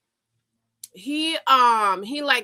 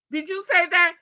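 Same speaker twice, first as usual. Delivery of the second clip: incredulous question; 7 semitones higher than usual. Retold or imitated.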